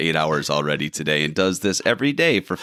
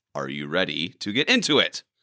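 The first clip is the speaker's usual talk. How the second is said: insistent, pressing, repeated delivery. Speaker repeats the question to the other speaker; insistent repeat. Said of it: "I said".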